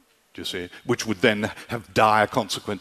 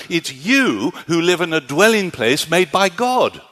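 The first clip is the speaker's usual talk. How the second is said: much higher and louder, insistent no-no-no; Paul's emphatic correction; 6 semitones higher, 4 dB louder than usual. Retold or imitated. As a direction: set them straight with rising fervour. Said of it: "Paul turns around and says".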